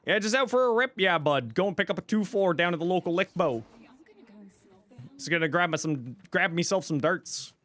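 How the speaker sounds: north-of-Toronto hick twang; Canadian hick accent. Shown as a demonstration. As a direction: lay on small-town Ontario Canadian slang and accent. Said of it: "that's north of the Toronto accent right there".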